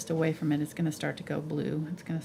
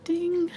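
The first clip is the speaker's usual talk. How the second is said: high loud bell ding; ding sound effect; 12 semitones higher, 8 dB louder than usual. Real, not acted. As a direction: chime it like a bell. Mock bell noise.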